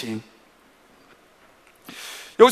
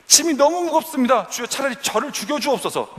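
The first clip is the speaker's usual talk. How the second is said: desperate plea; 7 semitones higher than usual. Acted. Moses crying out to God.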